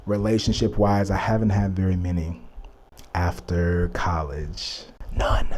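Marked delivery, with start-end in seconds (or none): 3.1-5.5 a low confiding whisper, half to herself; whispered aside. Real, not acted. Telling the viewers about her dating life in a sly whisper.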